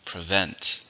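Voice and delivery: "Prevent" with the stress on VENT; stress on second syllable. Shown as a demonstration. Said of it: "stressed in the second".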